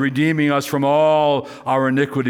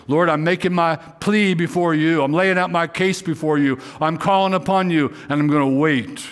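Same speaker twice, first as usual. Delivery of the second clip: higher, pleading voice of the praying psalmist; earnest pleading prayer; 4 semitones higher than usual. Pretend. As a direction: lay your case before God, urgently.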